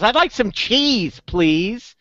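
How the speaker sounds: drawn-out request in a small duck's voice; little duck. Acted. Duck ordering at a bar in a joke, high polite voice. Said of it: "And the duck says".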